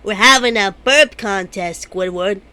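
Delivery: belched words; burping the words. Acted. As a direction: push the words out as a burp. Burp contest, talking while burping.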